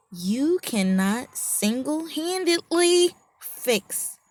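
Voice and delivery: slow, whispered, weighty; slow emphatic whisper. Real, not acted. Preacher whispering the answer slowly to the crowd. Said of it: "stressed answer".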